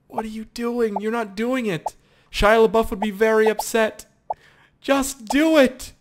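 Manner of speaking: high, strained urging; hammed-up motivational scolding. Gamer scolding balls that will not merge, high exhorting. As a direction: scold like an over-intense motivator.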